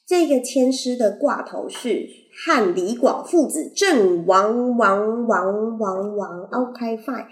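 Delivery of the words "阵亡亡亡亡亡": echoing repeat. Pretend. Dramatic stretched echo.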